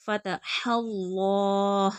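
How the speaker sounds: फ़तहल्लाह slow, throaty ह and heavy ल्ला; full lam. Shown as a demonstration. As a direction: darken and hold the ल्ला of फ़तहल्लाह. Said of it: "लाम पुर पढ़ा जाएगा". (फ़तहल्लाह, लाम पुर)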